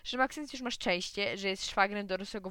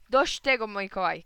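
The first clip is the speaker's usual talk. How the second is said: loud, cross outburst; angry shout; 8 dB louder than usual. Acted. Tired father shouts at his son to stop, angry. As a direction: snap at the nagging boy. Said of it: "krzyknął".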